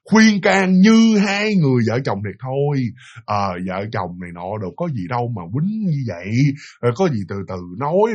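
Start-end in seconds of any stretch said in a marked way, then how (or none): 3.2-8.1 lower, softer retold peacemaking; gentle dissuading. Friend calming the quarrelling couple, gentle dissuading. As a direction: talk them down soothingly. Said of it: "bắt đầu mới khuyên can".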